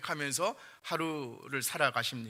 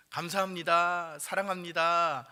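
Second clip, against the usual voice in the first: slow, higher and louder, each word given with care; heartfelt confession; 4 semitones higher, 7 dB louder, slower than usual. Shown as a demonstration. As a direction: say it sincerely while pinning on a carnation. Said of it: "이렇게 한번 고백하면서". (천천히 정성껏 고백하듯)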